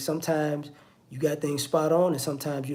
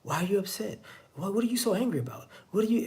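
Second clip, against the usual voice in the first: needling; 2 semitones higher, 5 dB quieter than usual. Acted. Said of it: "if you keep asking them".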